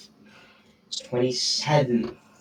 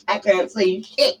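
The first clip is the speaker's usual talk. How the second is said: mock old man; 10 semitones higher than usual. Mocking the friend's hundred-year-old country, a high giggling old-man voice.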